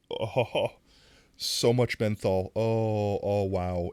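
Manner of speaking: loud laughing exclamations; overwhelmed, half laughing; real laughing shock at menthol; laughing at the sting. Real, not acted.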